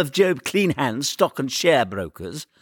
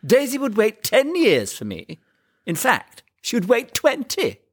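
lofty sarcasm, slowing at the ends; sarcastic; 7 semitones higher than usual. A narrator's reading. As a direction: sneer it in a higher, put-on young man's voice. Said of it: "Lupin said sarcastically".

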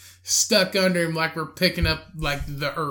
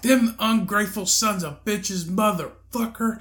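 higher-pitched indignant cursing; imitated ranting lady; 5 semitones higher than usual. Lady coming back from the garage, indignant mock rant. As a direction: mimic an angry stranger, drawing out the last curse.

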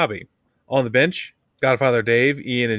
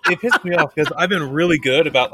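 annoyed; 6 semitones higher, 4 dB louder than usual. Real, not acted. Annoyed at own forgetting.

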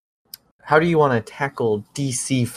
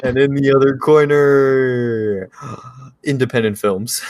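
announcer voice. Pretend. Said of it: "In this corner".

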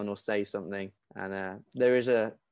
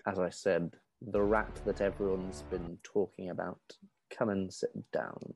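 lightly voiced officer, softer delivery; composed officer; 3 semitones lower, 4 dB quieter than usual. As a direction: keep it quiet and composed. GM acts officer receiving cadet.

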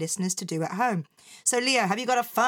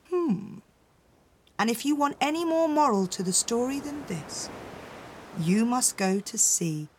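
story narration. A narrator's reading. Reads the story ending aloud.

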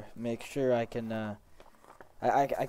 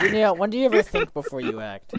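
exasperated teasing; 10 semitones higher, 12 dB louder than usual. Acted. Player teasing in character.

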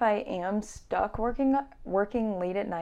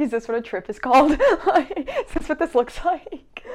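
mock tripping wonder; 5 semitones higher, 5 dB louder than usual.

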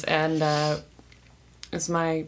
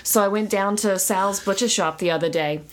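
put-on New York housewife accent. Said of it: "New York Jewish housewife accent".

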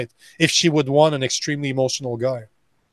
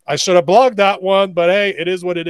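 higher, louder shrug-it-off fighter's voice; a sparring partner laughing off a missed block; shrugging fighter; 5 semitones higher, 3 dB louder than usual. Retold or imitated. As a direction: toss it off like a fighter who just got hit. Fighter shrugging off a lost exchange.

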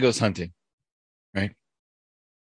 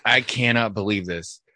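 slow, understated mock indignation; measured disbelief of a joke's pissed-off hunter; pissed, retold; slower than usual. Hunter back home in a joke, mildly pissed. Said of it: "he's just pissed".

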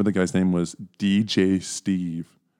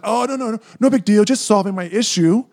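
mock nonchalance; 11 semitones higher, 4 dB louder than usual. Acted breezy reply to buddy.

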